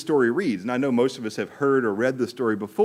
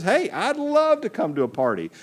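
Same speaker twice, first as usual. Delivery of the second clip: excited king; 9 semitones higher than usual. Acted. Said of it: "So excited".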